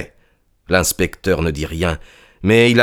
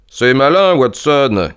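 higher-pitched reproach; pointed scolding, voice raised in pitch; cold exclamation; 6 semitones higher, slower than usual. A narrator's reading. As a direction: exclaim in cool annoyance. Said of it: "s'exclama-t-il froidement".

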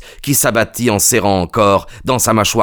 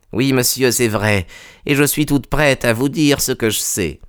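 lightly voiced servant woman, pitched up; a higher, restrained character voice; Madame Toller, coopérative; 4 semitones higher than usual. (domestique, voix un peu plus aiguë)

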